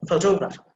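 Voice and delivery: photographer with a firm "to"; clear TA sound. Shown as a demonstration. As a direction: demonstrate photographer, leaning on the "to". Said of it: "ta sound is there".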